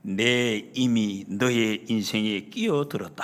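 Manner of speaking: low, slow, solemn royal declaration; imitated queen. Queen steps in for the maid before onlookers, low slow regal voice. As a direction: voice a queen's pronouncement, deep and drawn out. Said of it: "내밀면서 중전마마가".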